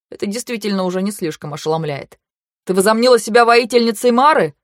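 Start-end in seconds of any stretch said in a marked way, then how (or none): 2.7-4.5 loud angry bark. A narrator's reading. Kantor barks at Vayu, loud and angry. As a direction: bark the challenge at her. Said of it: "рявкнул он".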